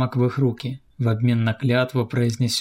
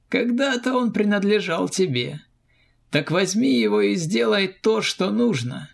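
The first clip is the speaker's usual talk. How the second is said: higher, steady commander; firm, serious soldier; Arkady's voice; 9 semitones higher than usual. A narrator's reading. Arkady hands over the blade.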